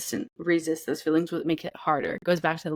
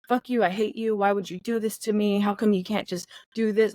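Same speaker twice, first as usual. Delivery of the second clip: mild mock rage; 3 semitones higher than usual. Shown as a demonstration. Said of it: "saying out loud what you're feeling".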